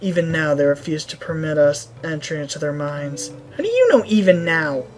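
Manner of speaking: level, formal shaman voice; measured, sober storytelling; grave village shaman. Acted. Shaman recounting the Goron tribe's turn, grave. Reads shaman's account of troubles.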